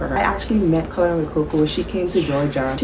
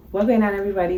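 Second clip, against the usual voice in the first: a little higher, bright channel hello; upbeat vlog greeting; 4 semitones higher, much faster than usual. Shown as a demonstration. Creator greeting her viewers, upbeat. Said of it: "Go, just talk regular".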